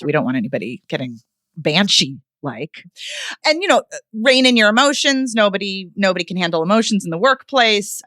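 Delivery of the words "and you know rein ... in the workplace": sarcastic lecturing tone; mocking corporate advice. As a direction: parody a stuffy coach. Mocking executive presence advice.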